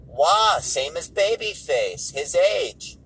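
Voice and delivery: slow imitated accent, starting high and loud; put-on Wiseau-style accent, stretched vowels; Tommy Wiseau. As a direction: exclaim it in a drawn-out mock accent. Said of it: "he's doing that whole shtick".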